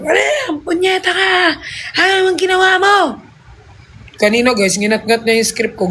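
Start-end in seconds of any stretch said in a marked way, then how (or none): 0.0-3.0 high-pitched mock scolding of the dog; shrill play-angry telling-off. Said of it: "Tapos kapag". (kunwaring galit na sigaw sa aso)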